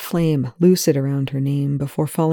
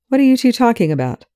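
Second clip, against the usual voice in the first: higher, louder, fast demand; sharply; 7 semitones higher, 4 dB louder, faster than usual. A narrator's reading. Telford catching Rush and Perry whispering, sharp. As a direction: snap the question at them. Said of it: "Telford asks sharply".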